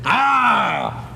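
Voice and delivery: game announcement. Acted.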